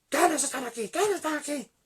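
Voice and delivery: high, loud alarmed questions; startled fright. Retold or imitated. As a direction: act out a pastor suddenly caught out. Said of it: "Un poco se asustó ese pastor". (preguntas asustadas, agudas y fuertes)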